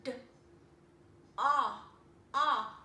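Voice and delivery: d, ah, ah, loud open ah; sounding out. Shown as a demonstration. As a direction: open wide on ah. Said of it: "So I hear".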